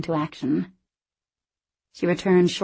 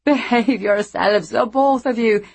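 suppressing a laugh; 4 semitones higher, 5 dB louder than usual. Acted. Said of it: "trying unsuccessfully not to laugh".

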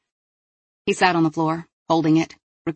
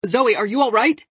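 higher, louder worried call; much louder call; 6 semitones higher, 3 dB louder than usual. Acted. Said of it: "much louder".

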